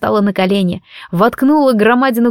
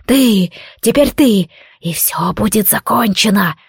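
voice cracking with excitement. Acted. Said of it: "Сорвавшимся от волнения голосом".

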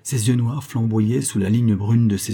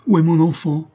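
loud, higher anguished shout; terrible howl; 7 semitones higher, 6 dB louder than usual. A narrator's reading. Proscrit demanding his lost child, terrible howl. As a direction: howl it like a father turned terrible. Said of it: "hurla d'une voix terrible le proscrit".

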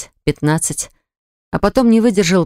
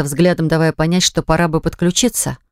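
usual speaking voice

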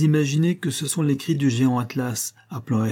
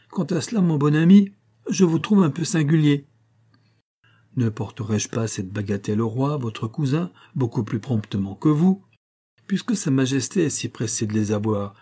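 giant Atlas, sly refusal. Acted. Giant slyly refuses to carry the sky again. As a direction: slyly turn down the request, pitched up.

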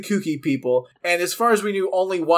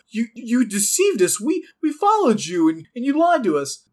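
higher-pitched mock indignant accusation; mock betrayal; 6 semitones higher than usual. Imagined follower accusing the leader who lied, mock indignant. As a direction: play a wounded, betrayed follower, lightly hammed-up.

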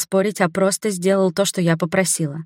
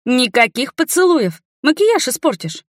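mock scolding; 6 semitones higher than usual. A narrator's reading. Friend forbidding kisses before the party, high bossy mock scolding. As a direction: lay down the law playfully.

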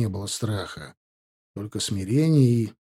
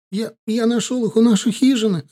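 desperate cry; 10 semitones higher than usual. Acted. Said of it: "закричал Кабиль".

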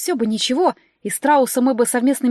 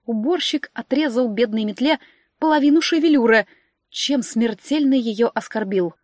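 usual speaking voice

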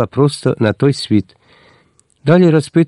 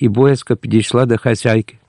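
usual speaking voice

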